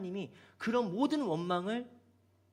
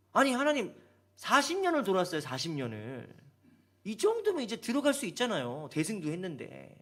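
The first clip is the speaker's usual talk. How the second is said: complaining to God. Retold or imitated. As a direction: whine it up at God. Voicing Israelites complaining to God. (하나님께 항의하는 백성의 목소리)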